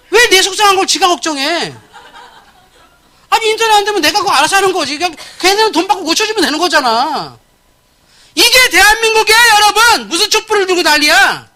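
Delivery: 높고 크게 터뜨리는 분통; 답답함을 소리치듯 쏟아내며; exasperated outburst. Real, not acted. 분개하며 언성을 높임. (언성을 높여 분통을 터뜨리는 목사)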